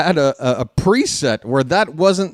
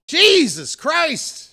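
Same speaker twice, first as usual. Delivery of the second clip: exasperated groan; 13 semitones higher, much slower than usual. Real, not acted. Frustrated at chat.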